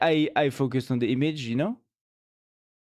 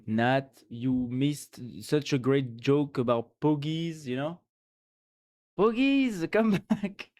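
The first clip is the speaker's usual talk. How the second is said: mock message to Nat. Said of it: "we will have to tell him".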